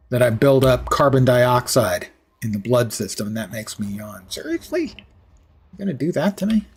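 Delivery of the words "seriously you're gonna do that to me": high, incredulous complaint; seriously, you did that?; indignant disbelief. Real, not acted. Indignant at game.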